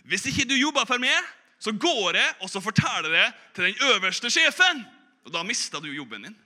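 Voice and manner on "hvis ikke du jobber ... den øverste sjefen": threat. Acted. Old man threatens young man.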